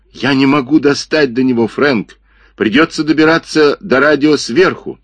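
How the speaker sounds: lightly voiced strained crook; reaching, voice tight with effort. Джипа under car, strained. (напряжённый голос)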